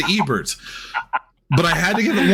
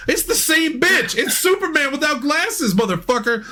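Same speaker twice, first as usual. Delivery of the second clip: exasperated outburst; 6 semitones higher than usual. Real, not acted. Ranting about Sailor Moon disguise.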